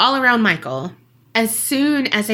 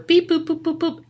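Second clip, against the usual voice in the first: phone dial beeps; 7 semitones higher than usual. Retold or imitated. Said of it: "imitated phone dial".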